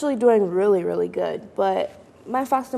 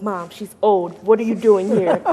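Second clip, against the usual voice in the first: put-on incredulous teen; 4 dB louder than usual. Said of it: "and I'm like".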